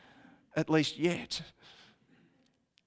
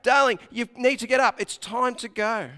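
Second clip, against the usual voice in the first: louder, firm wake-up call. Acted. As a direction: call her awake a bit louder. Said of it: "you say out loud".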